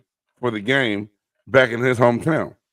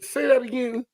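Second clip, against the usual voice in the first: retold disbelief; 13 semitones higher than usual. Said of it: "I said".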